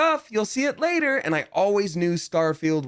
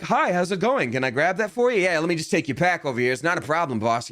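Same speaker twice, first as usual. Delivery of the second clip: put-on a light blue-collar Northeastern accent, higher and friendly; 4 semitones higher than usual. Voice actor mocking his own character's creeping Northeast accent, light imitation. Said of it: "it's gonna be like".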